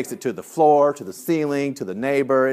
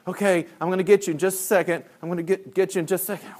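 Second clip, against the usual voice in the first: quick, higher-pitched stalling; harried reply; 5 semitones higher, faster than usual. Retold or imitated. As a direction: imitate a swamped counselor fobbing kids off. Harried counselor answering kids.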